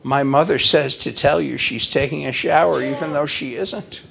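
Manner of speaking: put-on mildly innocent child's report; understated imitation of childish innocence, lifting at the end. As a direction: relay it guilelessly, like a little boy. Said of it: "said innocently".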